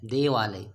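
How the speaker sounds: देवालय said as one smooth word, the parts run together; joined pronunciation. Shown as a demonstration. Teacher to class, the correct joined form, said smoothly. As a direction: blend देवालय into a single word, low and settled. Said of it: "एक ही में करना होता है".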